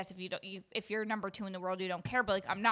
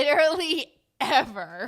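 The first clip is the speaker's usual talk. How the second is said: laughing protest; 5 semitones higher, 9 dB louder than usual. Real, not acted. Appalled at the grunt, laughing.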